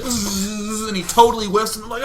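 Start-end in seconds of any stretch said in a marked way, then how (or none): 0.0-0.9 wasp buzz. Retold or imitated. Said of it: "He's like".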